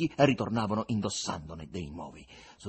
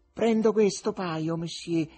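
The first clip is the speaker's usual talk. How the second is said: a higher, slow, dignified choice; 6 semitones higher, 5 dB louder than usual. Acted. Brunette buying shoes from Fagotto, dignified. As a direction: announce it like a great lady. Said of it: "disse la brunetta con fare dignitoso".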